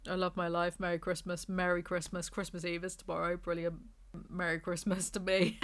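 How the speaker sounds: muted, resigned sarcastic cheer; deadpan sarcasm. Real, not acted. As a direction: wish yourself a glum merry Christmas. Sarcastic self-pity about lonely Christmas.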